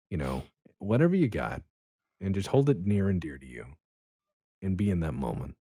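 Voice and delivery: calm, measured heartfelt advice with long pauses; soothing, sincere sign-off; silky smooth voice. Real, not acted. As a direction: speak smoothly and unhurriedly, leaving space between phrases. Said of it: "this silky smooth of a voice".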